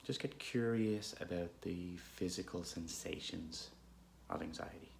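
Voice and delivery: unhurried, calm meditation guidance with long pauses; guided meditation. Real, not acted. Guide leading listeners through an anxious moment, calm meditation voice. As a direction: gently lead listeners inward, leaving space between phrases.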